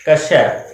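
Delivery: कश्य with a clear क and श blended; the correct sound, कश्य; correct pronunciation. Shown as a demonstration. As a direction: demonstrate कश्य as the correct form. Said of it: "लेकिन इसका सही उच्चारण है".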